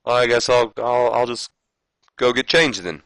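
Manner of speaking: mock Flair backing down; Ric Flair voice. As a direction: give in reluctantly. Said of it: "he says".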